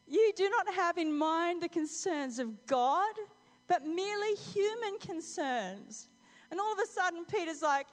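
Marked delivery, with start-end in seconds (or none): 0.1-6.1 loud, slow, raised-pitch pronouncement; stern rebuke. Acted. Jesus correcting Peter's human thinking, stern. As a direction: lay down the charge slowly and forcefully. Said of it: "it wasn't so gentle right then".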